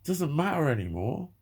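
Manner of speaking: mock impatient dismissal; dismissive mock voice. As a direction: mimic someone waving your problem away. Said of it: "you'll typically get someone going".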